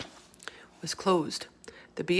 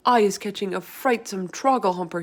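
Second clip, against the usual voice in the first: cried; 2 semitones higher, 5 dB louder than usual. Acted. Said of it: "he cried".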